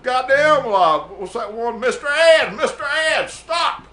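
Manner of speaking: high, loud mock yell at the horse; hammed-up cry from a bucking horse; retold panicked yell. Rider yelling at his bucking horse, mock panic. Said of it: "I said".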